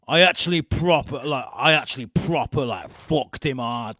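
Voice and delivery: loud mock Liverpudlian; Cheshire accent. Joking as the reality star, loud Cheshire accent. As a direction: ham up a northern Cheshire twang. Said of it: "I was gonna say a bit Liverpudlian".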